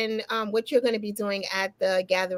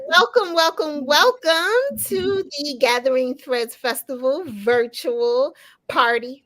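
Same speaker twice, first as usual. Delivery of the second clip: festive welcome; 4 semitones higher, 3 dB louder, slower than usual. Real, not acted. Host opens the virtual party.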